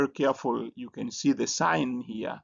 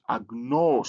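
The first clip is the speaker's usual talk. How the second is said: "agnos" with the pitch going up and coming down; rising-falling accent; 3 dB louder than usual. Shown as a demonstration. Teacher showing learners a Greek word's pronunciation, rising then falling. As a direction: let "agnos" rise, then fall. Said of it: "it's like it's going up and going down again".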